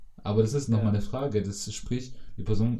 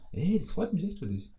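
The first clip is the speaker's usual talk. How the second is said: higher, a touch of put-on glee; understated fake joy; 8 semitones higher, 3 dB quieter than usual. Telling a friend, lightly faked delight. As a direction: say it with a little false cheer. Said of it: "da ist die Intonation auch ganz wichtig".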